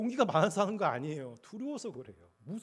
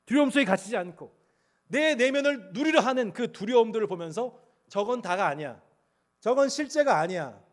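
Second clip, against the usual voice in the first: loud, high, rising preacher's cry; full-force preaching; 7 semitones higher, 11 dB louder than usual. Acted. Pastor urging the congregation, preaching loudly. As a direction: preach it out with growing fire.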